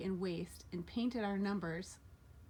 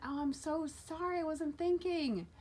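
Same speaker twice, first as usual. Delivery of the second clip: sheepish apology; 8 semitones higher than usual. Retold or imitated. Retold apology to angry coach.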